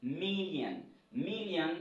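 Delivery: "million" as "MIL-yan", with a falling end; English pronunciation. Shown as a demonstration. Teacher repeats the corrected word for learners, English model pronunciation. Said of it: "C'est million".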